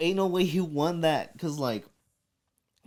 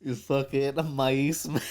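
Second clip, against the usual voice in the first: slow teasing insult; slower than usual. Acted. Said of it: "Did you just say maíz man?".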